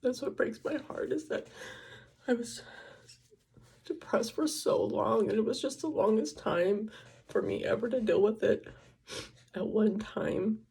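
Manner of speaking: holding back tears, voice sinking to a whisper; crying. Real, not acted. Talking to the camera about her long depression, tearful. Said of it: "Sorry, I don't mean to cry so much".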